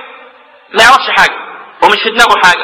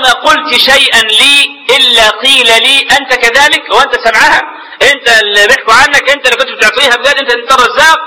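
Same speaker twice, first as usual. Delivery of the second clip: higher-pitched mocking reproach; retold rebuke; 4 semitones higher than usual. Brother retells the taunts he heard while unconscious, mock rebuke. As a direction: fire off taunting questions, as if imitating accusers. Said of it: "تقريعا وتوبيخا".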